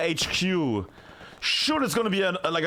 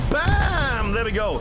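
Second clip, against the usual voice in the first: excited exclamation; 4 semitones higher, 4 dB louder, slower than usual. Real, not acted. Rocket hit in live match.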